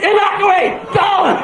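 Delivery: high-pitched panicked commander; hammed-up evacuation alert; mock emergency orders. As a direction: sound the alarm in urgent high cries. Voices brain ordering emergency evacuation.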